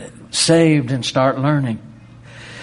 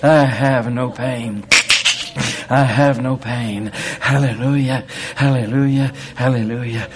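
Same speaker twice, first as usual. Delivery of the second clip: bold declaration; 4 dB louder than usual. Pretend. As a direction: keep repeating it like a proclamation. Demonstrating speaking healing aloud.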